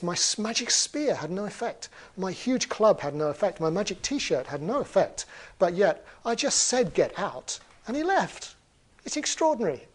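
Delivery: baffled troll thinking aloud; amazed. Acted. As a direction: marvel at it, puzzled and astonished. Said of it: "And the troll is amazed".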